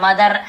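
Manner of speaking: "मदर" with a full final R; R pronounced. Shown as a demonstration. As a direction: say "मदर" sounding out the R at the end. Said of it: "ऐसे र को पूरा नहीं बोलते".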